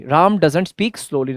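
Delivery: very slow, every word drawn out; slow demo. Shown as a demonstration. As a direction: spell it out slowly for the class. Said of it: "Ram धीरे नहीं बोलता है". (बहुत धीरे-धीरे, हर शब्द खींचकर)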